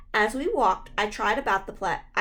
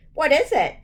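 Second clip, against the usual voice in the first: louder and higher, eager; eager demand; 6 semitones higher, 6 dB louder than usual. A narrator's reading. Little brother Jeremy demanding the surprise, eager. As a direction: demand the secret excitedly. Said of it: "Jeremy demanded".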